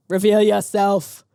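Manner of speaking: a hint of a dramatic attorney; mock solemn lawyer. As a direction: announce it like a pompous lawyer. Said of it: "this guy sounds like the, the lawyer for a rapper".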